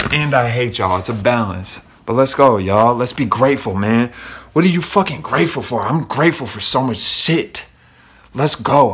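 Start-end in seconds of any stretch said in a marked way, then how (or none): 2.0-4.1 loud, rallying shout to the crowd; hype shout. Real, not acted. Vlogger rallying viewers to be grateful, loud hype shout. 4.5-8.9 loud, rallying shout to the crowd; hype shout. Real, not acted. Vlogger rallying viewers to be grateful, loud hype shout.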